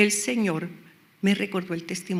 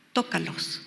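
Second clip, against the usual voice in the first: one low, soft word; the Lord's quiet order; 4 semitones lower, 6 dB quieter than usual. Retold or imitated. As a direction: give God's instruction softly.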